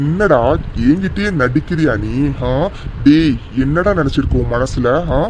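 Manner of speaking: low, scornful scolding; angry berating. Acted. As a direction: put the driver in his place, threateningly. Father berates driver over his daughter.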